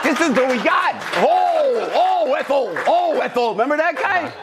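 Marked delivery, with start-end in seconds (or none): 1.2-3.5 Fred Mertz impression. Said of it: "A guy named Fred Mertz".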